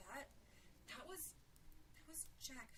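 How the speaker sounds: frightened realisation. A narrator's reading. Frightened girl recognises who screamed.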